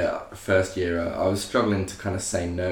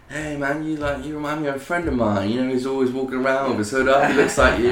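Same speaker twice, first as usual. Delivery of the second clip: stranger's voice; 5 semitones higher than usual. Retold or imitated. Drunk stranger voiced in story.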